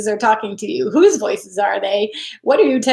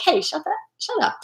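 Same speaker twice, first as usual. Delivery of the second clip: mock defending a loved one, much higher; protective snap; 8 semitones higher, 5 dB quieter than usual. Defending a loved one from a bully, much higher mock snap. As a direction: shut the bully down for someone you love. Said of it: "you'd be like".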